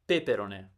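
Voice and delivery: peperone stressed on the opening "pe"; wrong first-syllable stress. Shown as a demonstration. Teacher running through the wrong versions, first-syllable stress. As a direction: punch the first syllable of peperone, rest weak. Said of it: "First, second, fourth, they're all wrong".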